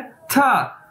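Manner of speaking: था said as a clear falling demo; Chinese word pronounced. Shown as a demonstration. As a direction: model था with a falling tone. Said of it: "इसे बोलना कैसे है". (था को गिरते सुर में साफ़ बोलें)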